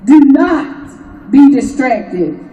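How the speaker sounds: "Do not be distracted" spaced out slowly; deliberate slow warning; slow emphatic.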